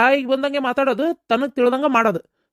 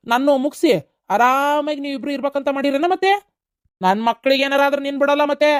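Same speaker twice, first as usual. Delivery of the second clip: corner her, voice raised; angry accusation; 3 semitones higher than usual. Acted. Husband accuses and threatens wife. (ಏರಿದ ಧ್ವನಿಯಲ್ಲಿ ಆರೋಪಿಸುವ ಬೆದರಿಕೆ)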